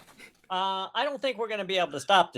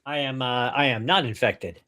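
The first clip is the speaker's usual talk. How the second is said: lightly voiced lower-pitched character; character's careful denial; 5 semitones lower than usual. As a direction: lower your voice to reassure the guard. Answering survivor as John in game.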